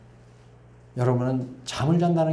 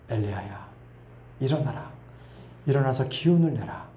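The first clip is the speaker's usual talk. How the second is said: tender call; 2 semitones lower, 4 dB quieter than usual. Acted. God comforts Elijah gently.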